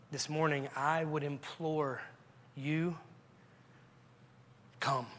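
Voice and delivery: soft, measured pleading with long pauses; earnest altar appeal. Real, not acted. Preacher imploring the unsaved to come to Christ, hushed earnest. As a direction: gently implore them, leaving space between phrases.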